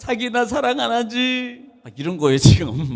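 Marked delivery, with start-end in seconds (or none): 0.0-1.6 mock weepy, crying, tearful voice. Acting out a wife's tearful question to her husband: imitating a wife crying. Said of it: "눈물을 흘리면서 이렇게 말하면".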